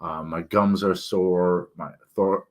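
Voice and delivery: talking around a swollen tongue. Real, not acted. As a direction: sore mouth and throat, thick speech. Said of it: "That's why I sound funny when I talk".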